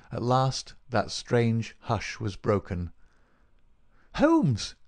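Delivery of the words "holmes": high, louder calling out of a name; crying out. A narrator's reading. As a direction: call out sharply to rouse him. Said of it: "he cried".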